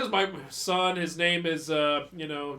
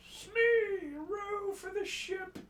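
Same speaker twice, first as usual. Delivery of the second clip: higher, slow pirate captain voice; Captain Hook; 13 semitones higher, 4 dB quieter, much slower than usual. Acted. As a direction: bark an order at Smee like Hook. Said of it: "Captain Hook voice".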